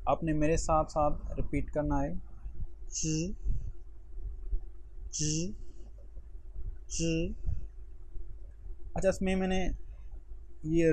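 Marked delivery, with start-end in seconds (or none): 2.9-7.3 soft "च" with only a light tongue vibration; teacher modeling a tricky sound; repeat-after-me demo. Shown as a demonstration. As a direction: say "च" three times gently. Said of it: "मैं तीन मरतबा इस sound को repeat करूँगा".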